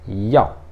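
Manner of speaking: "Yao" in a firm, falling fourth tone. Shown as a demonstration. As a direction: say "Yao" alone, pitch dropping decisively. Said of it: "quarto tom, então ele é mais forte".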